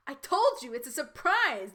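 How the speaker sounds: a hint of a barking champion; barked line. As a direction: snap it out with mild impatience. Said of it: "Diantha barked".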